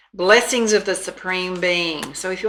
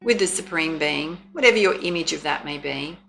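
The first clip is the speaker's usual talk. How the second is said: oracle card reading; 3 dB louder than usual. Acted. Reads oracle guidebook text aloud.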